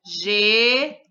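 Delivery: Geringonça split into ge, rin, gon, ça with pauses; sílaba por sílaba. Shown as a demonstration. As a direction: say Geringonça one separate syllable at a time. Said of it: "uma palavra de uma sílaba". (Geringonça separando as sílabas)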